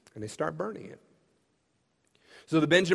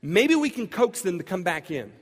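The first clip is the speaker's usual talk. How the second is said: eager interruption; 2 semitones higher than usual. Retold or imitated. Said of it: "raises their hand and says".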